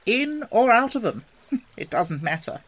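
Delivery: high, loud start easing into a chuckle; pleasant laugh. A narrator's reading. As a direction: brush it off with a light laugh. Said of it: "with a pleasant laugh".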